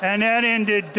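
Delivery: words broken up by his own laughter; laughing through words. Real, not acted. Lecturer laughing at his own joke to the audience, laughing. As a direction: chuckle your way through the line.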